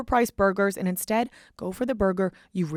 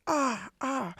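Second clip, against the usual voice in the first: soft, higher-pitched "ah" of pain; mock pained moan; 5 semitones higher, 6 dB quieter than usual. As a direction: play up a hurt arm, softly. Faking pain from broken arm.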